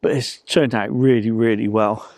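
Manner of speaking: talking through a mouthful; chewing while speaking; mouth full of food. Real, not acted. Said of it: "listen to me eating".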